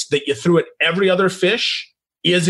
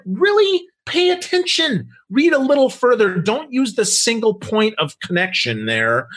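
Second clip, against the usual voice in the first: high exasperated scolding; 4 semitones higher than usual. Retold or imitated. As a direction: really, pay attention, incredulous. Exasperated retort to bad pitches.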